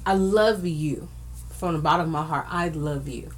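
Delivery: heartfelt, slowing and sinking low and soft; tender, from the heart, voice dropping away; a little emotional. Real, not acted. Host tells a struggling friend she's loved, a little emotional. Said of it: "I'm a little emotional".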